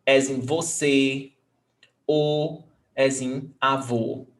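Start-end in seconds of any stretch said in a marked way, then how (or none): 2.1-2.6 closed O as in avô; closed vowel. Shown as a demonstration. Teacher showing the circumflex sound, closed O. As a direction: say O rounded and closed. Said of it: "It makes a closed vowel sound".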